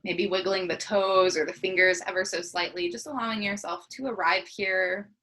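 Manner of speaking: unhurried body-scan guidance with long pauses; guided meditation. Acted. Teacher leading a morning body scan, guided meditation. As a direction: guide them gently into the breath, leaving space between phrases.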